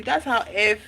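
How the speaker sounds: ordinary talk, nothing marked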